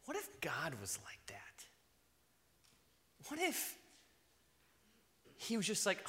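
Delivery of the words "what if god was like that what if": whispered question. Real, not acted. Asking the congregation, in a hushed whisper.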